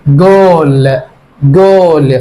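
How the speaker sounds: جول with a hard G like goal. Shown as a demonstration. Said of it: "الجي خفيفة".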